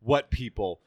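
low retold challenge; imitating Batman. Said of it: "the way he says".

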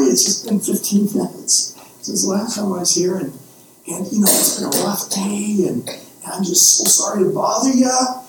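sheepish sinner, apologising over and over; stammering, humbly begging the Lord for forgiveness; humble apology. Acted. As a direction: grovel a little, embarrassed to ask again. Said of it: "act sort of humble".

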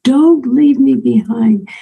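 pleading statue. Retold or imitated. Statue in a night terror calls to the dreamer, slow pleading. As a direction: let the statue beg to not be left behind, lightly voiced. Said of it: "she's calling out to me".

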